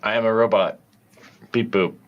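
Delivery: flat, stiff robot voice. Acted. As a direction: speak like a clunky robot. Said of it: "That was totally convincing".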